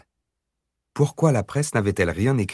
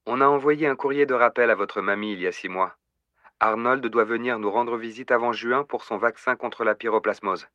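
candy-sweet voice; 3 semitones higher than usual. Acted. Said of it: "la voix rose bonbon est revenue".

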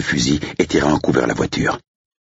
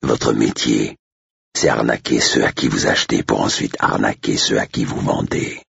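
lightly lowered, controlled reproach; contemptuous Blake; 3 semitones lower than usual. Acted. Blake condemns the agent's swindling trade, contemptuous.

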